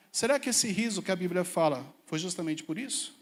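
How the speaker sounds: usual speaking voice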